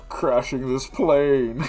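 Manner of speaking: slow, loud masked-villain voice; a slow booming Bane imitation; Bane impression. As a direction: drag it out like Bane. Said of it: "my Bane impression".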